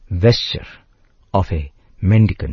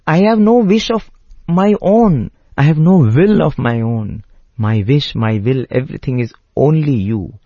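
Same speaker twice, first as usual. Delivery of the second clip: pleading in tears; 3 semitones higher than usual. Acted. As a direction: beg not to be asked to choose. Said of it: "and Lakshmana starts crying".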